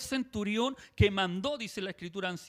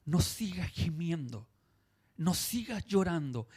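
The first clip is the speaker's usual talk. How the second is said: gentle consolation. Retold or imitated. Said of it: "le está diciendo".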